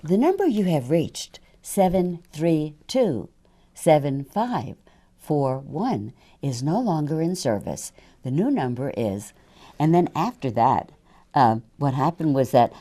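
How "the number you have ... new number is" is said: slow, careful recorded announcement; recorded phone message. Shown as a demonstration. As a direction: read it like a phone company recording. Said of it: "I would record".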